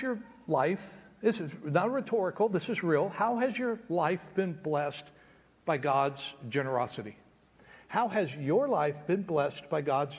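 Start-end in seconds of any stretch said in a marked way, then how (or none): 3.1-7.2 slow, soft. Shown as a demonstration. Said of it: "repeated question".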